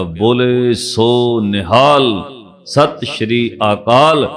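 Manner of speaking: slow, drawn-out jaikara; retold battle cry. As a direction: call out the slogan, stretching each word. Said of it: "ਉੱਚੀ ਆਵਾਜ਼ 'ਚ ਕਿਹਾ".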